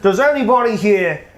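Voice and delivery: fretful trader talking fast; nervous pleading merchant. Acted.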